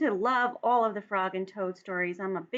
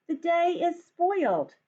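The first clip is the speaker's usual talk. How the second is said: higher, sulky little Toad; Toad's voice; 8 semitones higher, 4 dB louder, slower than usual. Acted. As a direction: lift the voice for a glum Toad. Toad complains about rain.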